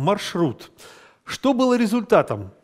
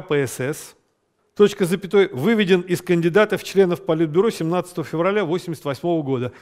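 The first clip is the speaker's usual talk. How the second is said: dictating. Shown as a demonstration. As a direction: read it out for copying. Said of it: "С красной строки".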